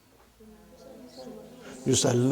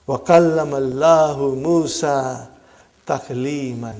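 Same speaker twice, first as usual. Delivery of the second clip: Quran recitation; 2 semitones lower, much faster than usual. Shown as a demonstration. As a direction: recite it reverently, stretching the long syllables. Teacher recites a Quran verse.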